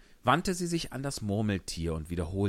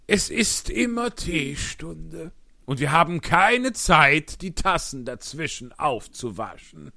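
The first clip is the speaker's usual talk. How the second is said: loud, excited Hatter voice; 9 semitones higher, 8 dB louder than usual. Acted. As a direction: tell it like an agitated Hatter. Hutmacher als Figur. (lauter, aufgeregter Hutmacher)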